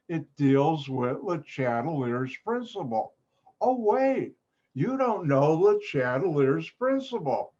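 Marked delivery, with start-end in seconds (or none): 3.6-7.5 high, sudden "oh wait"; mock surprise. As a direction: act as if it just struck you. Sudden mock realisation mid-lecture.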